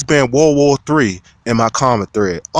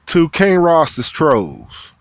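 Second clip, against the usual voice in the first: drawn-out shout-out; 6 semitones higher, much slower than usual. Real, not acted. Hailing his fan trolls.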